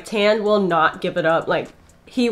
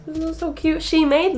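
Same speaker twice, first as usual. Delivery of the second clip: cute gush; 8 semitones higher than usual. Real, not acted. Gushing over merch.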